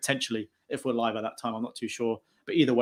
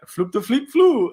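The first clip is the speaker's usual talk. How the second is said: higher, slow mock French-sounding babble; mock French gibberish; 10 semitones higher, 6 dB louder, slower than usual. Mocking a teammate's English, in mock French gibberish. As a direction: fake French nonsense, drawn out. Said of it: "He's like".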